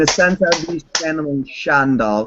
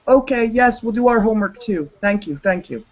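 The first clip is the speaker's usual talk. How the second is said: high, eager schoolboy voice; mock obedient kids; 9 semitones higher than usual. The cops answering him, high pupils' voice. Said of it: "They're like".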